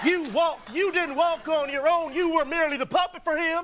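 mock TV preacher, building up; televangelist. Guard preaches to intruder like a religious channel host. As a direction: preach at the stranger like a TV evangelist. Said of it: "religious channel".

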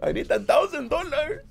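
very high, pleading fake Latino voice; mock Latino accent. Fake grandson begging for money, mock Latino accent. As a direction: beg in a silly Latino accent. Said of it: "why do you sound Latino".

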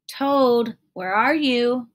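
high, loud call into the dark. A narrator's reading. Frog calling for Toad in the dark house. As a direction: search the dark room by voice. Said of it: "called Frog".

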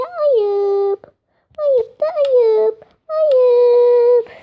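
loud, drawn-out mock scolding; tut-tut the player like a fussy aunt. Scolding shamelessness playfully. (abartılı, yüksek sesle "ayıp" diye azarlama)

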